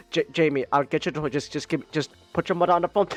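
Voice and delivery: a hurried dad brushing his son off; impatient dad. Retold or imitated.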